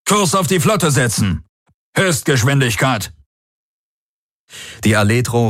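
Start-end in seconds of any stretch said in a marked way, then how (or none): 0.1-3.1 higher, firm command voice; commanding order. Acted. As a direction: order full speed. Feldherr gibt Befehl. (Feldherr, befehlend)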